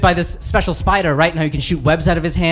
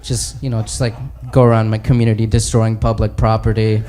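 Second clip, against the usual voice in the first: sheepish Bruce Banner; 6 semitones lower than usual. Acted. Banner voiced low, sheepish.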